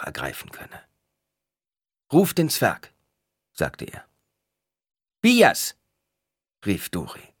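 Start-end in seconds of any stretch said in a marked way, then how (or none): 2.1-2.9 higher, louder curt order; a hint of a commanding Paul. A narrator's reading. Paul orders Duri to call the dwarf, firmly. 5.2-5.8 much higher, louder call. A narrator's reading. Duri calls the dwarf into the room, loud call.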